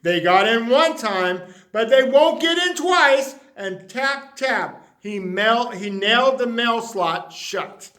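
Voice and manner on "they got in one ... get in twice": determined vow. Acted. Vowing to keep bunnies out.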